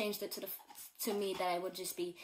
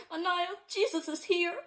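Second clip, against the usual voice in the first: high, loud, thrilled announcement; telling her sister the news, high and loud; excited announcement; 9 semitones higher, 8 dB louder than usual. Retold or imitated. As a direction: burst out with the news.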